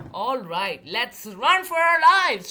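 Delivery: shout. A narrator's reading. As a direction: yell at her to flee. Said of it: "shouted Linda".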